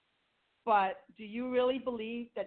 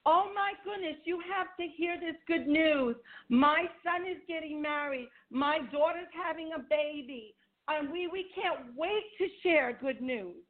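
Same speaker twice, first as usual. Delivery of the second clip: bubbly, higher, gushing to a friend; excited phone gushing; 3 semitones higher than usual. Pretend. Woman phoning her friend with good news, excited. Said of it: "pick up the phone and say".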